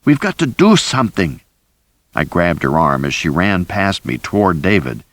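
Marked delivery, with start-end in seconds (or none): 0.1-1.4 high, pleading, near tears; frightened cry. A narrator's reading. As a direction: beg them to act, voice rising in panic. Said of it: "Rosie cried".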